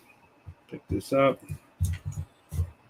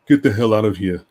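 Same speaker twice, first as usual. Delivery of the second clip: retold yell; 7 dB louder than usual. Yelling from the bathroom stall.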